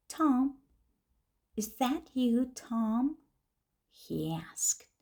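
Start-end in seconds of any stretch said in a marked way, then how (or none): 0.1-3.2 loud, high, upset calling of a name; a stranger, angry and worried, demanding Tom. A narrator's reading. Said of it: "He sounded angry and upset".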